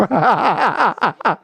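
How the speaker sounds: real laugh in quick falling pulses; hearty laugh. Real, not acted. Commentator laughing at the pastor's Greek, hearty laugh. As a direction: let out a run of hearty laughter.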